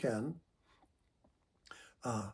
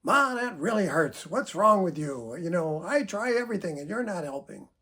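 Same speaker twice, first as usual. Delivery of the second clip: angry accusing tone; 2 semitones higher than usual. Shown as a demonstration. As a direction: blame her, voice rising with hurt. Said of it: "Instead of like".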